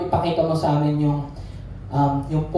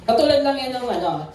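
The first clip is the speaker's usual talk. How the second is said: ordinary talk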